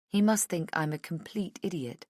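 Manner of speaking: usual speaking voice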